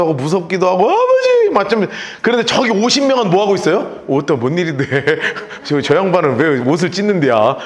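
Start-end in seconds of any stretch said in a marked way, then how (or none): 0.9-1.5 wailing cry. Retold or imitated. Elisha's cry again. 4.1-7.6 puzzled onlooker. Retold or imitated.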